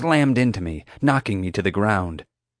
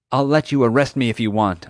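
pleading; 4 semitones higher than usual. Acted. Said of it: "I pleaded".

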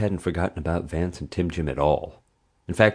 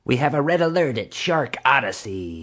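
grave announcement; 7 semitones higher than usual. A narrator's reading. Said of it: "so gravely that one might".

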